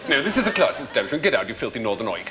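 put-on snooty dismissal in an upper-class English accent; borrowed posh English accent. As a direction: send them packing in posh tones. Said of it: "now I've got your accent".

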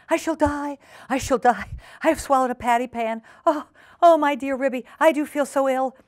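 high, wailing hypochondriac alarm; panicked howl. A narrator's reading. Duchess sure she swallowed the pan, howling. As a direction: wail in hammed-up panic. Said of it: "Duchess began to howl".

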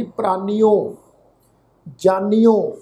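ਪ੍ਰਾਨੀਓ and ਜਾਨੀਓ ending in a clear -nio; ਜਾਨੀਓ with hora o on the end; careful pronunciation. Shown as a demonstration. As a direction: sound each syllable of ਪ੍ਰਾਨੀਓ, ਜਾਨੀਓ distinctly. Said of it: "ਇਸ ਢੰਗ ਦੇ ਨਾਲ ਜਾਨੀਓ".

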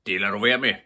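put-on loud, angry warning to the old man; angry robber chief voice. A narrator's reading. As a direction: snap it shut, furious father. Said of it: "sagde Mattis vredt".

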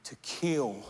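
soft, hushed confession to the king; a queen's soft, trembling plea; Esther's hushed plea. Acted. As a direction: lay it bare quietly, almost in secret. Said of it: "She said".

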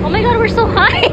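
high, loud thrilled cry; thrilled shout. Real, not acted. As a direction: yell it out, thrilled at the height.

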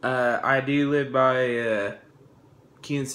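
talking around pipe stem; words past pipe; pipe in mouth. Real, not acted. Seen 2: Bearded man holds pipe stem at lips until 3.1, then lowers it.

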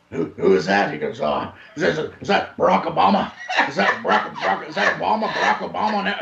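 retold muddled, stuttering star; confused stammer. Mocking a star puzzling over a shirt, confused stammer. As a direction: stumble over the name, imitating someone confused.

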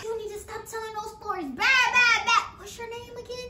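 put-on high, bossy old-lady voice; bossy grandma. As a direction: scold the grandkid like a cranky granny. Grandma voice again.

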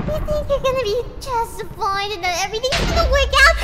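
building to a shouted threat; taunt, then roar; evil ghost voice. Acted.

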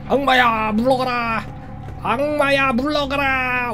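hammed-up exorcist commanding the demon; a playful exorcist ordering the demon out; mock exorcism. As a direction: banish the devil like a mock priest. Exorcising the monster baby.

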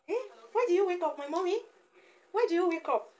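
high-pitched playful questioning; high singsong motherese; baby talk. Pretend. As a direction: coo a mock complaint at a baby.

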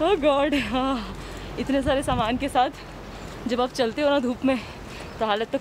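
muffled behind cloth mask; speaking with covered mouth; talking through face mask. Real, not acted. Seen 4: Selfie speaker wears cloth mask over mouth throughout; references unmasked.

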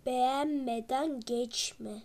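slow, laughing sign-off. Real, not acted. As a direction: laugh through the words. Laughing while signing off.

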